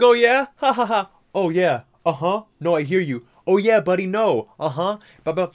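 loud and high, calling across a street; shouting across the street. Retold or imitated. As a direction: chat at full volume to a friend far away. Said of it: "that's how they were talking".

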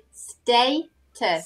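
"status" slowly as STAY-tus, long A. Shown as a demonstration. Teacher correcting a learner's word, long A in status. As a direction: stretch the first vowel of "status" like "stay". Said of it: "So it's the long A".

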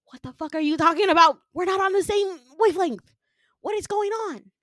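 high, loud, baffled demand; incredulous outburst. Retold or imitated. Winter staring at the villain, incredulous outburst. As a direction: raise your voice in disbelief at him.

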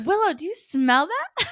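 high, laughing disbelief at the dog; half-laughing while asking the dog. Retold or imitated. To her dog Willow in the car, laughing. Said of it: "And I'm like".

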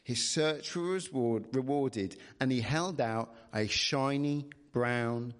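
measured bedtime-story reading; storybook narrator; story narration. A narrator's reading. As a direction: read the tale aloud expressively. Reads the story aloud.

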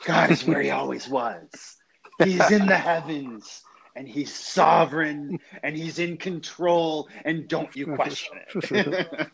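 put-on slow, high Pittsburgh accent, preacher's emphatic cadence; Doctor Sproul's Pittsburgh accent. Preacher answering where God is in a crisis, imitated Pittsburgh accent. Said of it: "in his Pittsburgh accent".

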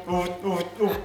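soft breathy honks; duck call honks. Shown as a demonstration. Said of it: "It's kinda oof".

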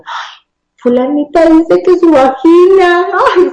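agudo, lento, burlón, con risita; imitando risita de maestra. Retold or imitated. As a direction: como maestra que se ríe del nombre. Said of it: "una maestra decía". (imitando a una maestra que se burla del nombre, con risita)

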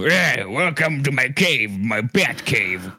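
lightly put-on goofy character voice; funny haha voice. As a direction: imitate a silly joke accent. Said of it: "you do the weird, funny, funny, haha".

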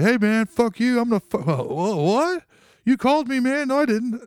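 high, loud, flustered phone squabble; mock indignant quarrel. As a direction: argue back in an exaggerated high voice. Acted phone quarrel with confused stranger.

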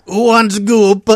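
high, loud mock Transylvanian accent; drawn-out, hammed-up Transylvanian dialect; Gwyneth Paltrow. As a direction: call it out slowly in a silly thick accent. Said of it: "talk in her natural dialect".

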